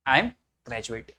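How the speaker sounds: I am graduate, very slow and spaced out; slow repeat for students. Shown as a demonstration. Teacher repeating the sentence slowly for students. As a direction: drag out each word so the class can copy it. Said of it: "तो बोलेंगे".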